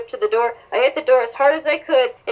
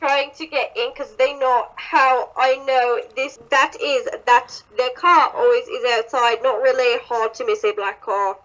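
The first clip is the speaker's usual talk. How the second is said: put-on British accent; lightly acted British accent; Crowley. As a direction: keep up the British character voice. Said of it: "oh, this is Crowley".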